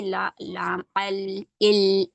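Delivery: slow, drawn-out letter sounds; teacher drawing out the letter names; sounding out letters. Shown as a demonstration. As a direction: stretch each Arabic letter sound slowly. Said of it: "उल ऐसे करेंगे".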